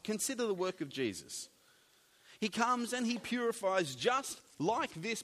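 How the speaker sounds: ordinary talk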